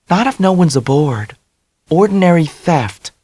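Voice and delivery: high, bubbly confidence; ebullient Dell. A narrator's reading. Dell voiced.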